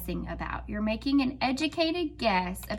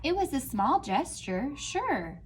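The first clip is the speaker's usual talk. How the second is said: expressive storybook reading; reading to children; 2 semitones higher than usual. Acted. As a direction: read it out like a picture book to a class. Teacher reads picture book aloud.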